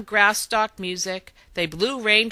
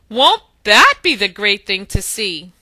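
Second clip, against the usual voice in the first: gleeful; 10 dB louder than usual. A narrator's reading. Boo laughs, then speaks.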